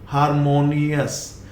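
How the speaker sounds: हारमोनियस as har-mo-nee-us; correct pronunciation. Shown as a demonstration. Teacher derives it from harmony, correct pronunciation. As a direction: end हारमोनियस in a light us. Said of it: "harmony से क्या बना".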